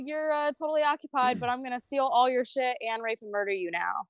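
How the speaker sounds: mock casual attacker. Imagined stranger to an occupied pilot, mock casual. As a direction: play an imagined attacker being absurdly offhand.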